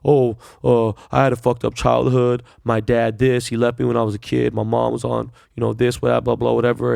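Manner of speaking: imitating an excuse-making defendant; mock a sob story, dismissive; mocking whiny excuse.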